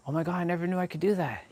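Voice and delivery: fast, whispered amazement; breathless old person marveling; amazed old person. Retold or imitated. Imagined old person discovering walker exercises, fast whispered awe.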